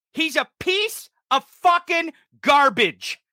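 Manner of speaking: slow, spaced-out insult; emphatic repetition. Real, not acted. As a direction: punch "piece", then space out "fucking garbage". Repeats insult after "Got it?.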